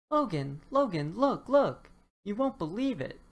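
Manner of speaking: building to a high loud call; shouting. Acted. Dinosaur shouts to his friend Logan, rising excited calls. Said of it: "shouted Topsy".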